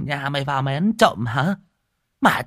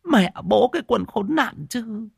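indignant cursing; 13 semitones higher than usual. A narrator's reading. Old woman curses the man who abused the madwoman, high and angry. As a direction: curse whoever did this to her in pity and rage.

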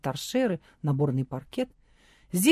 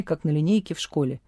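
ordinary delivery, nothing marked

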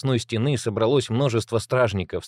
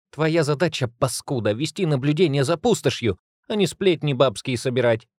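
higher, hard scolding; stern threat; 5 semitones higher than usual. Acted. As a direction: scold him like a traitor. Maria threatens guard held over wall.

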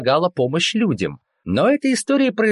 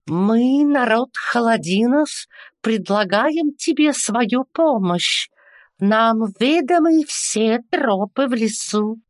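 put-on guttural northern accent; 7 semitones higher than usual. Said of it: "с сильным гортанным акцентом".

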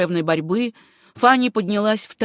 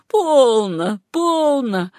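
soothing coo, higher pitch falling gently; ласковое бормотание; 5 semitones higher, 4 dB louder, much slower than usual. A narrator's reading. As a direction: hush a baby tenderly. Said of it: "ласково бормотала она". (ласково, успокаивающе)

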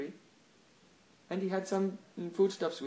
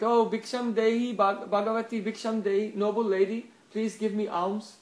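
raised, insistent beggar's plea; begging; 4 semitones higher, 5 dB louder than usual. Acted. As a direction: call out for alms at the door. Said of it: "and he begged".

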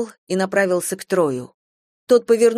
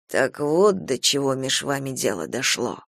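anxious mutter; 5 semitones lower than usual. A narrator's reading. Boldwood mutters to Troy about Bathsheba, anxious and low. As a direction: murmur it under your breath, uneasy. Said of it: "с тревогой пробормотал Болдвуд".

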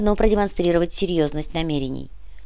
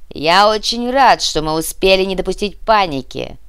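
loud, measured announcement; public address to captives; 5 dB louder than usual. Acted. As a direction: address the hostages with firm authority. Terrorist leader addresses the hostages.

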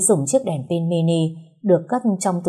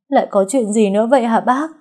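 higher, louder anguished asking; distraught question; 5 semitones higher, 5 dB louder than usual. Acted. Bereaved girl asking the neighbour what else happened, distraught. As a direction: ask in dread of more bad news.

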